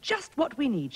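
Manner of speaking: high, loud and cheery announcing; storybook queen. A narrator's reading. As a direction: present it brightly to children. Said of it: "she said".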